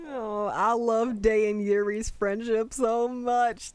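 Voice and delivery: slow, slightly teary gushing; touched, drawn-out adoration; about to cry. Real, not acted. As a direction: gush as if tears are coming. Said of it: "I'm literally gonna cry".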